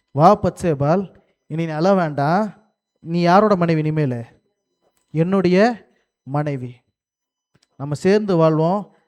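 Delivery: a slow, measured hint of a consoling husband; lightly acted David. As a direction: lightly play a husband claiming his new wife, drawn out. Acts out David consoling Bathsheba.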